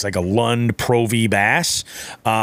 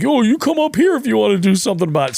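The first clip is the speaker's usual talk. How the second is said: higher, fast mock yell of a challenge; retold yell; 11 semitones higher, faster than usual. Old guy challenging the Lund driver at the ramp, fast mock shout. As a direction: imitate the old guy daring him, pitched up and rushed. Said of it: "they're yelling back and forth".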